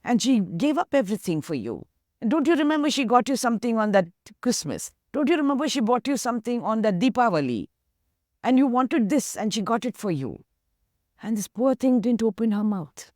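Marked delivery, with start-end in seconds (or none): 0.0-10.4 urging, egging on. Retold or imitated. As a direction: hammer at her to give in. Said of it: "Everybody else egging her on, urging".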